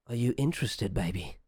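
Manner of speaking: lightly voiced brothel worker, pitch falling away; mimicked seductive brothel patter. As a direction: imitate a brothel worker's come-on. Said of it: "in a voice that sounds kind of like a brothel worker".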